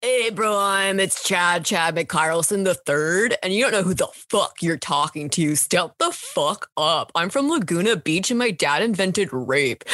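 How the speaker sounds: a hint of a cocky frat bro; frat boy impression. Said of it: "my frat boy impression".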